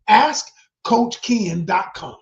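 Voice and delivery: slow, loud, hammered plug; emphatic shout. Real, not acted. Pushing viewers to visit the site, slow emphatic shout. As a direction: shout the web address slowly.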